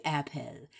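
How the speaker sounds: "apple" said ap-PELL; spelling pronunciation. Shown as a demonstration. Challenging the spelling, "apple" as ap-PELL. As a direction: give "apple" a clear EH in the ending. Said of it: "Unless you gonna say".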